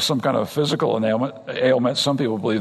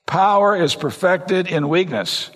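slow emphatic repeat; 4 semitones higher, slower than usual. Shown as a demonstration. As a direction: repeat "Power is perfected in weakness" slowly, leaning on "Power". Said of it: "You get that?".

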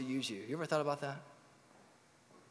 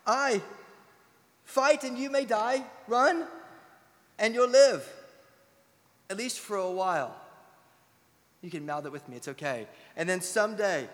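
a hint of William Wallace rallying his men, louder; rally the troops, a light battle-speech voice; Braveheart speech; 5 dB louder than usual. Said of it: "you got it memorized".

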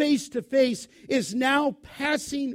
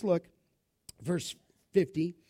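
usual speaking voice

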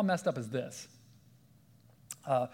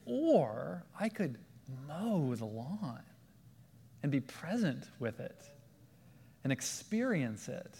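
calm presence; 3 dB quieter than usual. Shown as a demonstration. Contrast to grumpy mowing.

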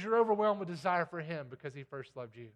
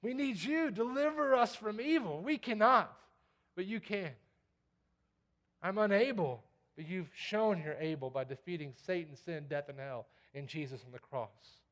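a prayer of dependence, earnest then hushed; pleading prayer. Retold or imitated. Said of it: "It's like".

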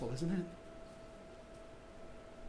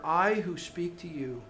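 plainly; 3 semitones lower, 5 dB quieter than usual. Retold or imitated. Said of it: "Jesus says it so plainly".

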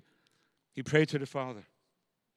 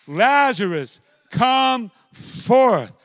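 higher, louder command; loud calling command; 8 semitones higher, 9 dB louder, much slower than usual. Acted. Jesus calling dead Lazarus out of the tomb. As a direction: call him out once more. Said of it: "he said it with a loud voice".

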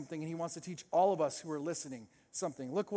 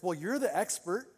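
sarcastic. Shown as a demonstration. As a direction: needle the expert with exaggerated deference. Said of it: "I think Jesus said it more like this".

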